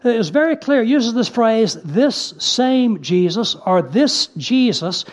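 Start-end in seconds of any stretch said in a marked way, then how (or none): 1.8-3.5 slow, deliberate stress on "this same Jesus"; "this same Jesus" drawn out word by word; emphatic. Shown as a demonstration. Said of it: "it emphasizes this again and again". 3.8-5.0 "this Jesus" said slowly and deliberately; slow, weighted "this Jesus"; emphatic. Shown as a demonstration. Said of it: "it emphasizes this again and again".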